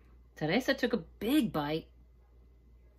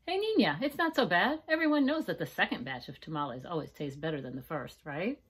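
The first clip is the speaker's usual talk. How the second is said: comforting aunt; 3 dB louder than usual. Acted. Aunt Rosa consoling Maria, playful comfort. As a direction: nudge and cheer her up.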